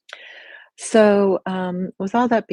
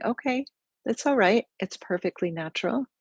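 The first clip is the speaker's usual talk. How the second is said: soft, higher reassuring voice; gentle self-reassurance; 5 semitones higher, 4 dB quieter than usual. Shown as a demonstration. Teacher showing the group accepting self-talk, gently reassuring. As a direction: say it softly, as if accepting it.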